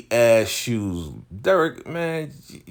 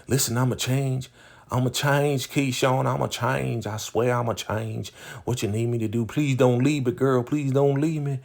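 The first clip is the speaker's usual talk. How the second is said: lightly voiced pleading, higher; a hint of a desperate boyfriend; begging; 5 semitones higher than usual. Derek begging Keyshawn not to leave, mock pleading. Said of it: "he's like".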